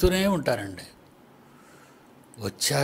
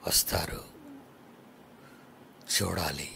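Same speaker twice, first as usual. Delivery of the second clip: lower, softer hushed voice of Jesus waiting; a tender whispered longing; 10 semitones lower, 12 dB quieter than usual. Acted. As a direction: breathe it like a tender hope.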